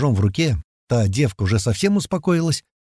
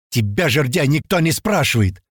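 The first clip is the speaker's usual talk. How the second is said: irritated comeback, slightly raised pitch; snappish retort; 4 semitones higher than usual. Acted. Young man rebuffing the fat man's advice, snappish. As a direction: bite back at the one lecturing you. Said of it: "огрызнулся парень".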